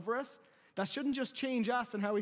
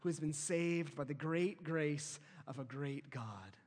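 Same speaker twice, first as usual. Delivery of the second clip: quiet confession; 5 semitones lower, 4 dB quieter than usual. Shown as a demonstration. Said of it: "Wake up each morning saying".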